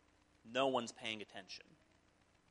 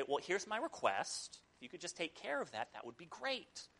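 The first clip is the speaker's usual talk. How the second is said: sheepish request; 3 semitones higher, 7 dB quieter than usual. Retold or imitated. Sheepish request to worn-down god.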